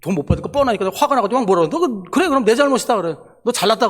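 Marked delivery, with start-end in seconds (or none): 1.7-3.9 mock-angry, higher-pitched comeback; retold angry yelling. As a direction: throw back a sarcastic concession, lightly acted. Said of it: "화가 나가지고 막 소리 지르고".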